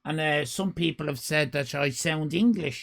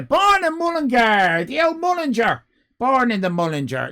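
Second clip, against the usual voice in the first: higher and louder, fond boasting; gushing; 7 semitones higher, 6 dB louder than usual. Acted. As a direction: brag about the hometown. Gushing over Mullingar.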